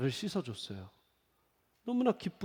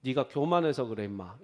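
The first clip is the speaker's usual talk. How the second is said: lightly voiced blunt pastor, falling on 교만해서; a hint of a gruff senior pastor scolding, 교만해서 stressed; fellow pastor's voice; 4 semitones lower than usual. God scolding the pastor in a fellow pastor's voice, mildly gruff. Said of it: "우리 최병락 목사님 목소리처럼 하시면서".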